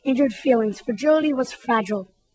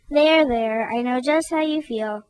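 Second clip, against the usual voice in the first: cooing; 3 dB quieter than usual. Acted. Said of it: "cradled his head and cooed".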